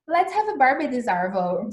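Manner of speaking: playful try at an Australian accent. Shown as a demonstration. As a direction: put on an Aussie accent for slang. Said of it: "they don't say the letter R".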